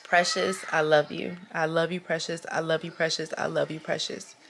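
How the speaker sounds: softening, fading sincere words; tender self-love. Real, not acted. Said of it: "look right here at my camera".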